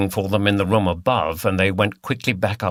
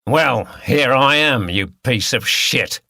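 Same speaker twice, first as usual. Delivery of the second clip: mild Cockney snarl; a hint of an aggressive Cockney snarl; 3 semitones higher than usual. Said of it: "snarled Wilson".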